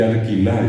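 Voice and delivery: alquilar with an R sound for the L, said arkila; Guarani R for L. Shown as a demonstration. Showing how people say alquilar. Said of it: "dice la gente".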